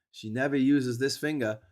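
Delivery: slow, cackling delivery of the joke; old man laughing at his own joke; punchline laughing. Retold or imitated. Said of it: "And he goes".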